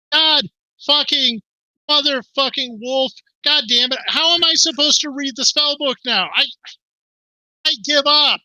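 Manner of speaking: high-pitched, fed-up cursing outburst; acted frustrated tirade; exasperated rant. Cursed character rants, then storms off.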